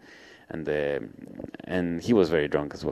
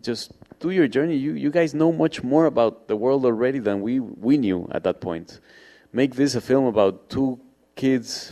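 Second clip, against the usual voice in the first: put-on Argentinian accent; 3 semitones higher than usual. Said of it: "and he said".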